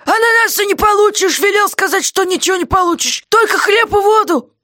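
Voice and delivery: jailer's voice, clearly put on; gruff jailer. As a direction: play the surly jailer shouting down. Guard voiced by reader.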